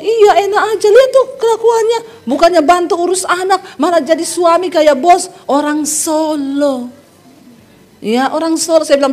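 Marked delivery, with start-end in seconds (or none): 0.0-6.9 devil egging on. Retold or imitated. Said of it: "Iblis ngomong".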